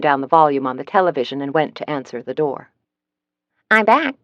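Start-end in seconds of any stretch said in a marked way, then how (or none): 3.7-4.1 a bright, cheery chirp of a phone clerk. A narrator's reading. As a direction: chirp it back cheerfully, a touch higher. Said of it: "the cheery voice chirped".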